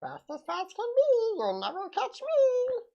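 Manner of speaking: lightly voiced cartoon jackalope, slow; slow sing-song critter voice. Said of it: "the jackalope voice".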